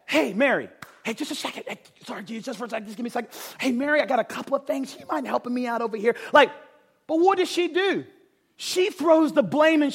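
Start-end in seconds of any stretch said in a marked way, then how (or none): 0.0-6.1 polite ask. Pretend. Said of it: "She could have said".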